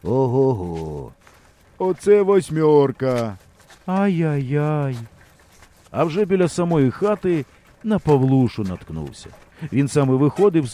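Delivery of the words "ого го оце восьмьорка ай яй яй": slow, drawn-out mock amazement; gawking villager. Onlookers mocking the bent wheel, slow and amazed. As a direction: marvel at the wreck, slowly.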